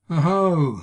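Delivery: loud, mocking cry; loud sneering exclamation; mocking oho. A narrator's reading. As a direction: jeer at her, drunk and cruel. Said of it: "he said".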